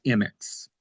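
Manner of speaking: M X said slowly as "em-ex"; correct pronunciation. Retold or imitated. Guest relaying the doctor's answer, M X pronounced "em-ex". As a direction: take your time on M X, "em-ex". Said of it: "he said that it, it was".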